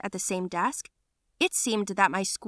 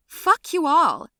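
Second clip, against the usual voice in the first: slow, loud furious yell; 8 semitones higher, 9 dB louder, slower than usual. Retold or imitated. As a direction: spit it at them. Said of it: "I yelled".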